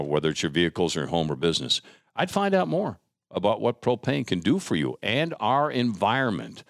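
upbeat sponsor read, selling it to listeners; live radio ad read. Acted. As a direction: pitch the product like a host's live spot.

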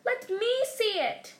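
high, slow, insistent cry; loud demand. A narrator's reading. Son demanding to see letter, loud demand. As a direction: demand it with drawn-out words.

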